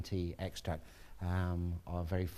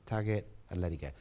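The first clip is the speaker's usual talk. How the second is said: brisk, faster repeat of the instruction; quicker instruction; 2 semitones lower, faster than usual. Shown as a demonstration. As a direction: rattle off "Tug it and let it go" quickly. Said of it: "That's it".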